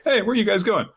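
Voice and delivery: put-on high child voice calling out; high-voiced child. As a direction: pitch way up like a little girl. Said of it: "they're like".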